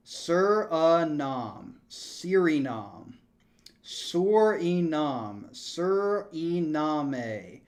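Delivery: Suriname stretched very slowly, over and over; practising a name. Shown as a demonstration. Streamer drilling the country name, slow and deliberate. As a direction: sound out Suriname slowly again and again. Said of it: "tell me how to pronounce this country".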